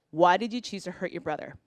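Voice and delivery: calm question. Retold or imitated. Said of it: "this is what I".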